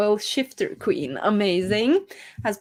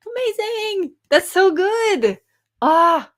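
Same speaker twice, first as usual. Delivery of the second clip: high, slow, gushing praise; delighted gush; 11 semitones higher, 6 dB louder, slower than usual. Real, not acted. Streamer gushing to a viewer who hit her goal, high and delighted.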